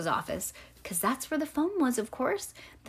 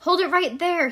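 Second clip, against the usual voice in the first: higher-pitched holler, mildly raised; hollered order; 7 semitones higher, 3 dB louder than usual. A narrator's reading. Man with the can running at the child, hollered order. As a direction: call out a sharp order to stop. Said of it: "he hollered again".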